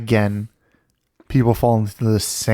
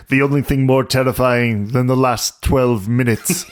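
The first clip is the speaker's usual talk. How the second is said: trailer voice. Retold or imitated. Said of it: "Suspiria had this trailer from the seventies that said".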